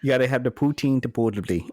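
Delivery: put-on Midwestern accent, quick; playful, fast Midwestern accent. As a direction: rattle it off in mock Midwestern. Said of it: "that's the true Midwestern way".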